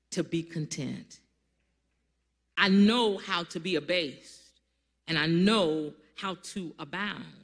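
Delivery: slow, measured Bible reading with long pauses; scripture reading. Acted. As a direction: read each phrase slowly and weightily. Reads scripture aloud.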